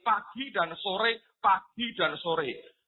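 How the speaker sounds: drawn-out, slowed repetition; slow, emphatic repeating; slow weary repetition. Real, not acted. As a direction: stretch it out to show it never stops. Stressing the giant's endless daily shouting.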